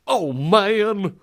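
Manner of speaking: ordinary delivery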